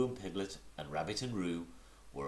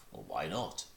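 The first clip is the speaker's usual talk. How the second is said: coldly. Acted. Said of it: "said Eeyore coldly".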